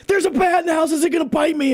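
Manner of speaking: high, hammed-up frightened squeal; mock panic. Telling the roommate there's a bat, mock terrified. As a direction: play your own past panic for laughs. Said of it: "and I'm like".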